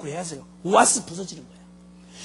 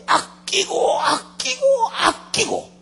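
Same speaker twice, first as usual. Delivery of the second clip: higher, emotional repeated cry; impassioned cherishing; 12 semitones higher, 3 dB louder, much slower than usual. Acted. God declaring long patience with Nineveh, passionately cherishing. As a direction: lift the voice with aching love.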